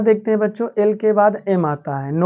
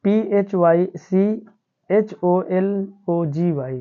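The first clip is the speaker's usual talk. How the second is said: slow spelling out; slower than usual. Shown as a demonstration. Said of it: "जैसे यहाँ देखिए".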